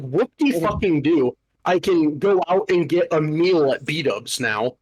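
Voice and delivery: slow, sarcastic mock enthusiasm; sarcastic retort. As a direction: drag it out, dripping with sarcasm. Sarcastic retort to a rebate offer.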